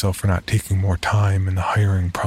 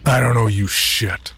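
gruff; 3 semitones higher than usual. Acted. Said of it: "Teddy replied gruffly".

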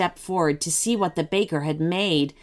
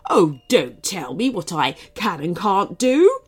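shouting. Acted. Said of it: "shouted the cupcake".

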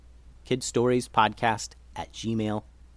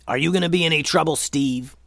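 quick, louder suspicious challenge; growled challenge; 4 semitones higher, 4 dB louder than usual. Acted. Momo with sword at the ready to Steve, growling. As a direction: fire off a wary warning. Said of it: "growled Momo".

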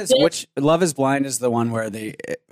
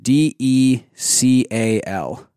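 slow spelling; much slower than usual. Shown as a demonstration. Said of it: "how would you pronounce the word".

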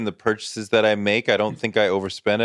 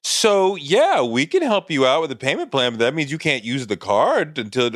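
lightly voiced chirpy phone agent, pitched up; customer service rep; 5 semitones higher than usual. The card company answering a worried caller, a light customer service voice. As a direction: brighten up like a helpful call-centre agent. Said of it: "they're like".

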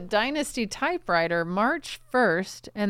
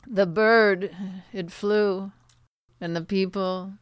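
pompous poet reciting slowly; dramatic poetry reading; slower than usual. Pretend. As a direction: recite it like a grand poem. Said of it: "Can we hear one of your poems?".

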